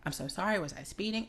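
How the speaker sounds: soft, polite apology; white voice. Acted. Driver apologizing to police officer, calm and deferential. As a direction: apologize carefully, posing no threat. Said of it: "you have to talk like this".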